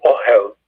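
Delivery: "ohel" stressed on O, second syllable light; O-hel, accent up front; stress on first syllable. Shown as a demonstration. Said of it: "in the first syllable".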